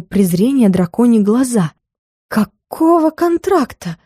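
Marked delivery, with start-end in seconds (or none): 2.3-4.0 high, slow, frightened question; a hint of a stammering, scared witch; stammering fright. A narrator's reading. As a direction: get it out past the fear. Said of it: "заикаясь".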